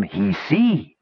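high squawking goblin; a high goblin squawk in a different timbre. A narrator's reading. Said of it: "squawked the warty one".

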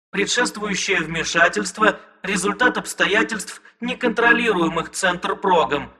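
calm, bland machine voice; soft recorded voice. Acted. Police recording informs Sid, soft and bland. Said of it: "мягко произнёс записанный голос".

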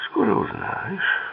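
slow, half-whispered reply; ominous whisper. A narrator's reading. Dedrick answers his chained captive, slow ominous half-whisper. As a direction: answer slowly, with little voice.

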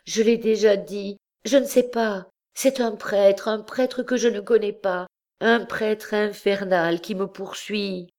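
high, halting, faltering plea; words breaking off in distress; a frightened girl's choked-up answer; broken voice. A narrator's reading. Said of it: "d'une voix entrecoupée".

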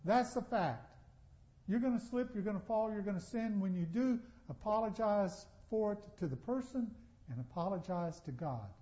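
Paul to the Galatians. Retold or imitated. Paul telling the Galatians no excuses, lightly voiced. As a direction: scold the people firmly but kindly. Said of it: "he is saying that to the Galatians".

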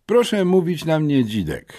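put-on cheeky new kid; boy's voice. A narrator's reading. New boy introducing himself. (nowy chłopak, wysoko)

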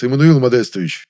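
"Эммануил Модестович" cried out loud and overjoyed; happy cry. Acted. Overjoyed director shouting the young man's name, happy cry. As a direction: shout his name in delight. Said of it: "буквально вскричал счастливый".

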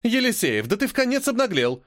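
furious at his cheek; indignant teacher's outburst. A narrator's reading. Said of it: "возмутилась она".

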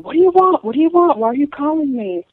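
hammed-up old woman yelling; mock screaming old woman. Caller retelling to the host the screaming woman. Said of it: "screaming on the phone".

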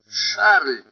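sharp loud cry of the name; shouted name. A narrator's reading. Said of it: "вскричал он".

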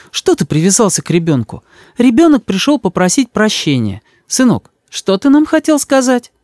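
высокий, ласковый голос матери; мама заступается за сына. A narrator's reading. (голос мамы, выше)

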